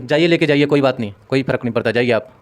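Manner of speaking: curt, fed-up brush-off; snapping at the worried relative; rude dismissive nurse. Shown as a demonstration. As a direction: wave them away rudely. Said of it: "अगर वो लड़ रहा है और आप भी लड़ेंगे".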